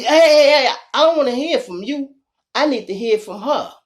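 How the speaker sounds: high, loud, fast cut-off; officer shouting. Retold or imitated. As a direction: shut him down mid-sentence. Hearing officer cuts the husband off.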